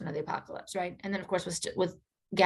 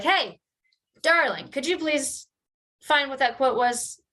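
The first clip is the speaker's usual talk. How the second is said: higher, slow, sugary "hey darling" ask; sweet request to producer; 6 semitones higher than usual. Retold or imitated. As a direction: coax an imagined producer into a favour. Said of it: "be like".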